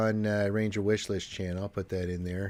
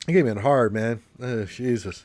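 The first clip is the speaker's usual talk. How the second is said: stuffy nose voice; blocked nose, sniffly; congested; 2 semitones higher, 6 dB louder than usual. Real, not acted. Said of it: "You can tell I'm congested now".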